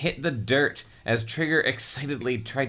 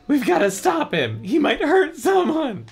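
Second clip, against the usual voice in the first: high, louder heroic cry; almost Patrick Warburton; 4 dB louder than usual. Acted. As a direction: play the urgent hero. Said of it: "You almost sounded like Patrick Warburton".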